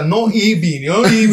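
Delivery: a hint of a teacher telling him off; Carmen Peraza impression. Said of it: "me dice el profesor como Carmen Peraza". (un toque de profesora regañando)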